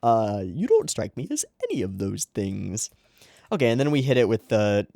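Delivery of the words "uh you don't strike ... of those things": lightly hammed-up puzzled disbelief; Fakir. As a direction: imitate a doubtful critic, pitched up. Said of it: "Fakir's like".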